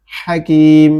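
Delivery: হাকিম opened with a rasping, airy h; হাকিম with throaty h and long final syllable; husky throat h. Shown as a demonstration. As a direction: breathe a hoarse Arabic হা into হাকিম. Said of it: "হা মানে ফ্যাসফেসে আওয়াজে".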